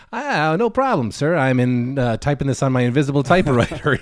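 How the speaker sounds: lightly voiced dopey cartoon police chief; Chief Wiggum. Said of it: "episode of Simpsons where Chief Wiggum".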